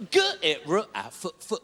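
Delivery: mushed, wobbling letter sounds; garbled letters. Retold or imitated. Assessor spelling over a breaking Zoom line, garbled. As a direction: spell it through a bad connection.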